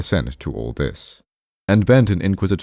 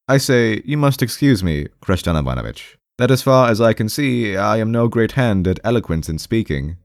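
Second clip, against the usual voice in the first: high-pitched, mildly wounded protest; half-aggrieved, hesitating; 5 semitones higher than usual. Acted. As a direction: excuse yourself haltingly, a touch aggrieved. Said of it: "in a half-aggrieved voice".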